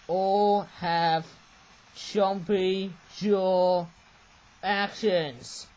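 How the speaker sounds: very slow, word by word: "All have chompy jaw actions"; slow, spaced-out dictation while writing "chompy jaw actions"; writing-along dictation. Real, not acted.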